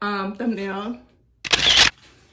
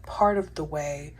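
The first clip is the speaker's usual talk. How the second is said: whispering; 3 semitones lower than usual. Real, not acted. Late night whisper.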